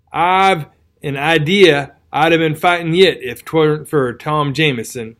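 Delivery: rustic old soldier, lightly voiced; tattered soldier voice. Tattered soldier tells his wound.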